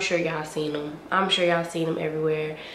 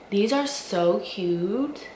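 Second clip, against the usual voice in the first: drawn-out gushing; 2 semitones higher, slower than usual. Real, not acted. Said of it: "I'm gonna say that about every single pair".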